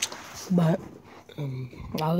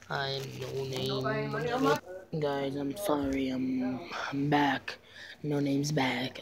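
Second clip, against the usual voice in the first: a lower, lightly voiced sad character; low put-on voice; 3 semitones lower, slower than usual. Kid playing No Name lamenting. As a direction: drop the voice a bit for a new persona.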